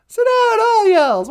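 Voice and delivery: loud Southern call. Shown as a demonstration. Repeating the Southern line louder.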